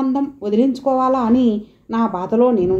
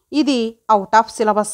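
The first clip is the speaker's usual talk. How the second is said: wry aside; 2 semitones lower, much slower than usual. Acted. Teen mocking a hard idea.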